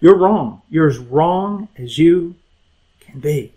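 blunt, forceful opening, then slowed down; stern correction that eases off at the end; hard truth. Acted. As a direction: lay down a firm verdict, word by word. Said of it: "have to say very hard things to you".

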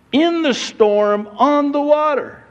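storyteller's swell at the climax; rising excitement. Acted. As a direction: pitch climbing high with the drama. Building tension of the storm story.

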